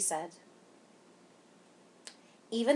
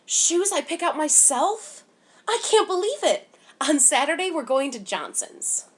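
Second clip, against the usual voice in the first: much higher and louder, bursting with delight; a little girl who can't believe her luck; excited; 8 semitones higher, 6 dB louder than usual. A narrator's reading. Girl telling us about new shoes, thrilled and much higher.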